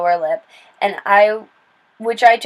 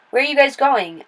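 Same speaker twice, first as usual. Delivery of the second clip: pleasant; 5 semitones higher than usual. Acted. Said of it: "I asked pleasantly".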